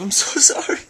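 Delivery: high, giggly sorry; laughing apology. Real, not acted. Laughing apology for own aggression.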